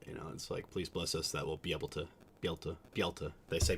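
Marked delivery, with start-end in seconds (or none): 0.7-3.3 "be able to" squashed to bee-ul-tuh; Utah Mormon pronunciation. Shown as a demonstration. Streamer quoting Mormon prayers, "be able to" slurred to bee-ul-tuh. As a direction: swallow the middle of "be able to". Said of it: "They say that in prayers a lot".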